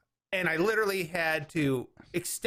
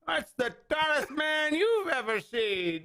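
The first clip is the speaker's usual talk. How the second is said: put-on slow, higher old-timer drawl; old man voice; 9 semitones higher, slower than usual. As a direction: play the old porch codger, slowly. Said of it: "Let me ask you this, Sonny".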